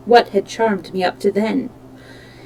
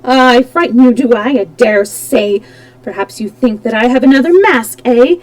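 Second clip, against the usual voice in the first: hissing; 2 semitones higher, 6 dB louder than usual. Acted. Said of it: "Then he hissed at me".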